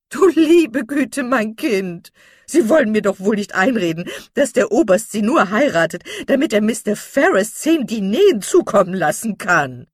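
horrified at the idea; shocked old lady. A narrator's reading. Mrs Jennings shocked misunderstanding. (entsetzt, hoch und laut aufgeregt)

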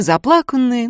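ordinary delivery

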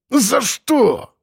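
high, pained yelp; mild howl. A narrator's reading. Mikhalych yelps at the slap on his head. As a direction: yelp out of pain. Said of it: "взвыл он".

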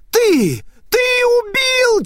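high, loud screaming accusation; accusing scream. Acted. Spirit screams at Naita as she lunges. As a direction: hurl it at the killer.

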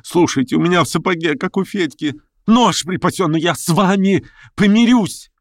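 high, urgent; feverish pleading. A narrator's reading. Verkhovensky confiding to Stavrogin, high feverish plea. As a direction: confide and beg at once.

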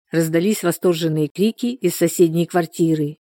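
ordinary delivery, nothing marked

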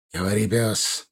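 usual speaking voice

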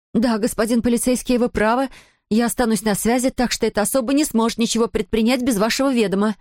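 high, carrying shout for the intruder; shouted out loud. Acted. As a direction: call it out so the hiding woman hears. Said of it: "выкрикнула эту фразу так громко".

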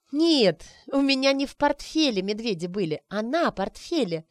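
delighted to set him straight; joyful remembering. Acted. Arina happily correcting the wizard, excited. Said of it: "радостно вспомнила Арина".

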